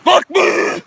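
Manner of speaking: high, loud screeched call; mock mating call. Streamer answering a request for a mating call, screeched. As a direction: screech it like a crazed animal's call. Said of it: "let's hear your mating call".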